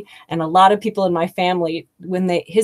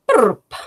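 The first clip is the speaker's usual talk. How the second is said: name blurted fast; 5 semitones higher, 4 dB louder than usual. Retold or imitated. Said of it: "it's like".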